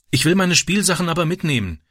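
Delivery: put-on high, pleading child's protest; protesting boy. A narrator's reading. Boy protesting to his stepfather, high and pleading. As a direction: whine it like a boy who won't leave his toys. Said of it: "protestierte Francis".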